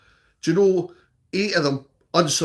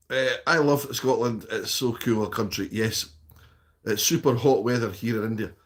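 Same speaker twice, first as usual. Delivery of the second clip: lower, subdued read-aloud voice; reading chat aloud; 6 semitones lower than usual. Acted. Streamer reads viewer's message about Scotland aloud, low and even.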